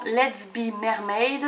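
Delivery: slow English name in a French accent. Real, not acted. Presenting a paper collection to viewers, French-accented English. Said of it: "avec mon superbe accent anglais".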